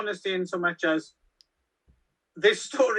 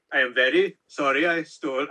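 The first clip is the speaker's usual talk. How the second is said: put-on Norwegian accent; 3 semitones lower than usual. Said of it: "I'm doing a crap Norwegian accent".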